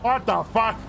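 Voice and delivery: high, rising incredulous question; baffled disbelief. Acted. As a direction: let the pitch climb in astonishment.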